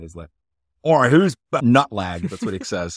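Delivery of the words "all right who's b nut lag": loud, higher-pitched mock Australian guide; bad Australian accent. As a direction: put on a hammy Aussie accent. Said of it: "I'm gonna do a bad Australian accent".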